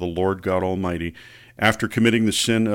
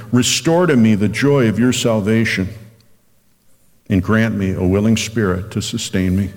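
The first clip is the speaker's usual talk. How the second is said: scripture reading. Acted. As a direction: read it like a prayer, unhurried. Pastor reads Psalm fifty-one.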